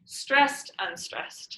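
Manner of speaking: DUM-da contrast on "Stressed, unstressed"; trochee beat. Shown as a demonstration. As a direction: punch "Stressed", then let "unstressed" fall away. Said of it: "A trochee is stressed, unstressed".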